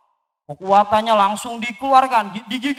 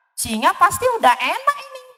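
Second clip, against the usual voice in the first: squeaky mouse voice; 2 semitones higher, faster than usual. Acted.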